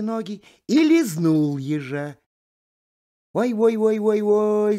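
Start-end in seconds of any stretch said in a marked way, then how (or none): 3.3-4.8 high, louder wailing calf; a calf bawling in pain, higher and louder. Acted. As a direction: howl it out like a stung calf. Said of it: "заревел телёнок".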